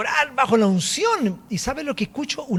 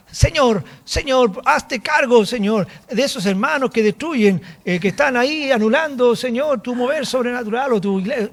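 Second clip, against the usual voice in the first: hard angry prayer; 3 semitones higher than usual. Retold or imitated. Preacher retelling his own angry prayer to God, mildly hard and stern. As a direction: pray hard, as if annoyed. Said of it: "era una oración dura".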